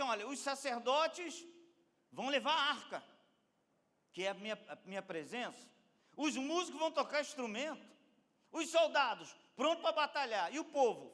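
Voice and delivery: loud, high marshalling of troops; commanding orders. Acted. God giving Joshua the marching orders, commanding. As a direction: call out each group's orders forcefully.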